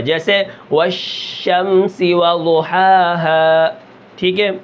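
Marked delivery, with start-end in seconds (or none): 0.7-3.7 slow والشمس وضحاها with the ش spread wide through the mouth. Shown as a demonstration. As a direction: let the ش spread and stretch the words. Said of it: "منہ کے اندر آواز پھیل جاتی ہے". (ش کی آواز پھیلا کر تلاوت)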